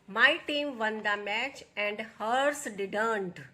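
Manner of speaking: very slow, every word laid out for students; slow dictation read. Shown as a demonstration. Teacher reading the example to her students, slow and deliberate. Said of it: "teacher reads answer sentence".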